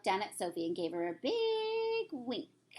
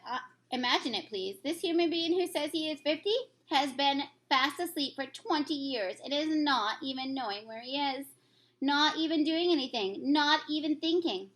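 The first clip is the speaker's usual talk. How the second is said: a lightly voiced kindly giant; friendly old giant, lightly put on; BFG voice; 3 semitones higher than usual. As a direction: read the giant's lines with gentle storybook character.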